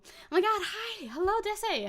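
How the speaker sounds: high, bright hello to a fan; excited greeting. Real, not acted. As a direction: squeal a happy hello.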